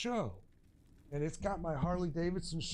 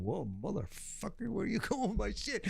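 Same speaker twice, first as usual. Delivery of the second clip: alarmed shout; 7 semitones higher than usual. Retold or imitated. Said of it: "I'm like, going".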